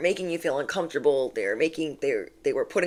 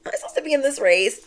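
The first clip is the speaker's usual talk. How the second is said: mock unsure racer; 9 semitones higher, 3 dB louder, much faster than usual. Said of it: "You're like".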